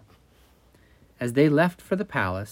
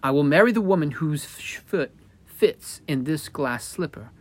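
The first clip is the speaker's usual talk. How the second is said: declaring prince; 4 semitones higher, 3 dB louder than usual. Acted. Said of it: "he declared".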